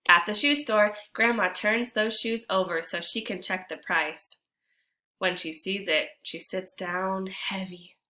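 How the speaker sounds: put-on expressive read-aloud for children; storybook narration. A narrator's reading. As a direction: tell the story to the class with feeling. Reads picture book aloud.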